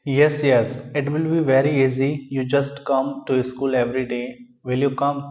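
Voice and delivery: slow, deliberate reading of the teacher's lines; unhurried classroom read-aloud; story reading. Acted. Reads the story dialogue aloud.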